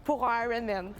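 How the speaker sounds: answering while jogging; while running. Real, not acted. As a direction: speak between strides while running. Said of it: "on va aller continuer de parler en courant".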